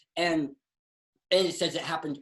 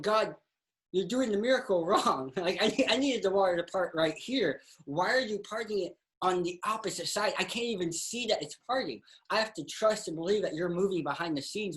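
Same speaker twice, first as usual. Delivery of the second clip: higher-pitched, exasperated protest to God; mock complaint; 5 semitones higher than usual. Israelites question God at the sea, mock protesting. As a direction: object to God's method, lightly acted.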